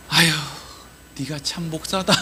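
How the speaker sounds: soft, sighing disappointment; tutting exasperation. Acted. God looking at a weak pastor, soft exasperated tutting. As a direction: say it like clicking your tongue at someone. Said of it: "혀를 차고".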